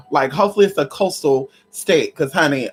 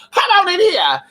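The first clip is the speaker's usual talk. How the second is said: higher, louder call; loud come-on-in call; 12 semitones higher, 4 dB louder than usual. Real, not acted. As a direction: shout it toward the door. Calling out loudly.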